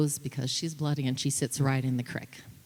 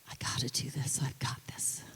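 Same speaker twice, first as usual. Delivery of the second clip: whispered; 8 dB quieter than usual. Retold or imitated. Mother quoting her injured daughter's whisper, hushed.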